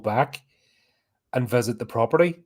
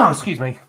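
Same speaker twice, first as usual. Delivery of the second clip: sneezing. Real, not acted. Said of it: "Sorry, I'm gonna sneeze".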